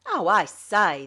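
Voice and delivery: captain remonstrating, aggrieved and slow; aggrieved protest. A narrator's reading. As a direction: protest like a wronged man. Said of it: "remonstrating, aggrieved".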